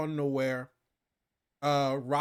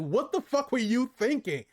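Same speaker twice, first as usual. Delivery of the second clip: high, louder, scolding raccoon rant; mock angry Rocket; 9 semitones higher, 4 dB louder than usual. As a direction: chew him out in a raised, high voice. Rocket lays into Drax.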